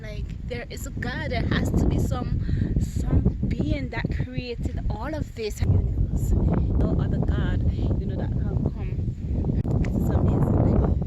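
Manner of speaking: choked up praising God; overcome with emotion. Real, not acted. Woman moved to tears by the mountains, tearful awe. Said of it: "my eyes just running water".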